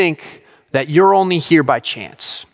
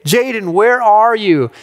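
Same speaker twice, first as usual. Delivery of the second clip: put-on higher-pitched call for a missing child; mock yell, pitched up; retold yelling; 5 semitones higher, slower than usual. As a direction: call out for your son, voice raised in pitch. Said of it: "I start yelling for him".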